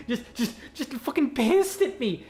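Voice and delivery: high laugh through words. Real, not acted. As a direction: giggle while talking. Laughing at the monkey.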